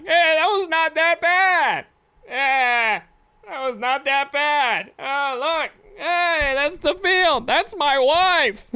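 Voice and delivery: high, breezy everyman voice; traditional white guy voice. Pretend. Parachuting skydiver to himself, in a chipper white-guy voice. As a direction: play it as a chipper regular guy. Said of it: "my traditional white guy voice".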